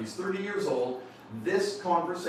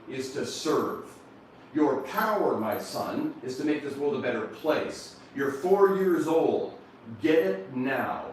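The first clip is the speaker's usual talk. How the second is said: fatherly charge. Retold or imitated. Father charging his son with purpose.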